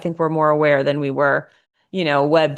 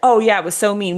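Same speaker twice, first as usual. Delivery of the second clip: lightly acted, slightly raised validation; eager agreement; 4 semitones higher, faster than usual. Chat siding with the complaining wife, mock agreement. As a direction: mildly mimic a yes-man echoing back.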